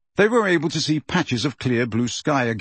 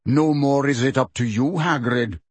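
smooth. Acted. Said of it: "said Megorian smoothly".

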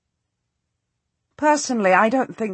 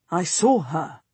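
flat; 3 semitones lower than usual. A narrator's reading. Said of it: "he says flatly".

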